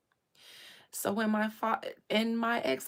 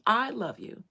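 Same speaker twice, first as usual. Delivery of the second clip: heartfelt plea, louder; pleading; 3 semitones higher, 5 dB louder than usual. Retold or imitated. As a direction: insist on your love. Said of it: "That's what I told him".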